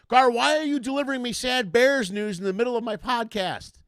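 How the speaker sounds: high, loud complaint; mock outrage. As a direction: scold him in playful indignation. Mock scolding of bad-news giver.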